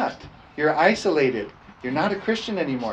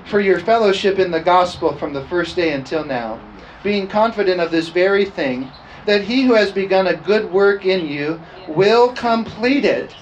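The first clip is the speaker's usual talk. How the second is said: raised, ringing scripture reading; emphatic scripture preaching; 4 semitones higher, 5 dB louder than usual. Acted. Pastor reading Paul's letter to the church, emphatic preaching. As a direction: preach the verse out with firm volume.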